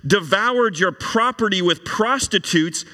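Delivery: put-on older son sneering at his father; sarcastic. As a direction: spit out the last line in a high, mocking voice. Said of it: "hear the sarcasm".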